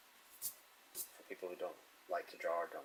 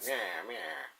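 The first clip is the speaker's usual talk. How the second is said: high, squeaky playful meow; mock cat meow; 11 semitones higher, 4 dB louder than usual. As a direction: meow like a cartoon cat for the tough baby. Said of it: "He's like".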